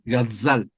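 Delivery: gazal with a buzzing z like a bee; pronunciación de gazal. Shown as a demonstration. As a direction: say gazal, z like a bee's buzz. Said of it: "Esa palabra se dice así". (gazal con z zumbando como abeja)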